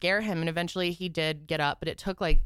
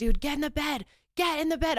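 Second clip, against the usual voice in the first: very high-pitched screaming; 10 semitones higher than usual. Retelling ordering him to get into bed; reenacting screaming at him.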